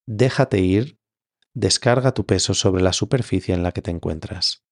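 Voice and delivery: measured meditation guidance with long pauses; guided meditation. Acted. Yoga teacher leading listeners into Yoga Nidra, guided meditation. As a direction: guide them gently into rest, leaving space between phrases.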